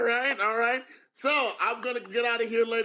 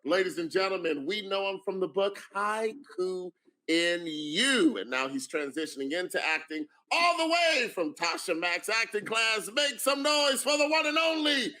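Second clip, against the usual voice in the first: hype announcer. Acted. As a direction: roll out the fighter's name with gusto. Introduces contestant like a fighter.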